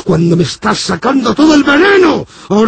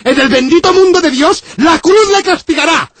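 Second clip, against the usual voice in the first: raised, preaching condemnation; outraged priest; 6 semitones higher than usual. Acted. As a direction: thunder at him like an offended priest.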